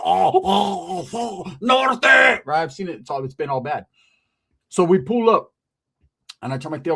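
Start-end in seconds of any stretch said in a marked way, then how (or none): 0.0-2.0 cousin's mock yell. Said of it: "I've seen Rick go".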